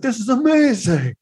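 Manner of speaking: high, hammed-up gushing exec. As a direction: gush like an easily impressed producer. Mocking execs' gushing praise.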